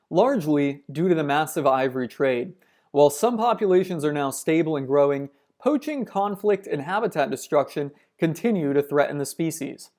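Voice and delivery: measured documentary read; reading aloud. Acted. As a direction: read it like a nature narration. Reads a nature passage aloud.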